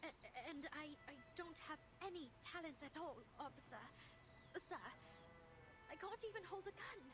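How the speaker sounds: soft, timid stammering lie; quiet, hesitant and unsure; nervous girl voice. Acted.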